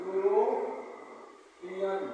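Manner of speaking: यूरोपियन drawn out very slowly and softly; teacher sounding out यूरोपियन slowly; slow pronunciation demo. Shown as a demonstration. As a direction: stretch each syllable of यूरोपियन. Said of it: "कैसे लिखेंगे इसका उच्चारण?".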